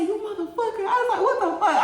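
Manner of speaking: mock angry yelling. Angry confrontation retold with laughs.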